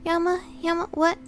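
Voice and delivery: lightly voiced panicked girl; frightened character voice.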